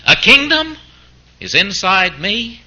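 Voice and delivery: high start, then slow and drawn out; mock bafflement, rising question; incredulous question. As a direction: stretch it out as if it makes no sense. Preacher voices incredulous believer.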